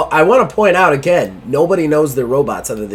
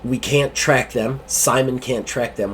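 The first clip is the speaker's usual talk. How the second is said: slow, subdued confiding captain; troubled captain; 4 semitones lower, 6 dB quieter than usual. Acted. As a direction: confide quietly across the desk.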